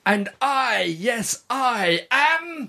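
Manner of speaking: slow, drawn-out announcement; redo, lighter proclamation. Shown as a demonstration. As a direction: say it again, stretched out. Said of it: "Do it again".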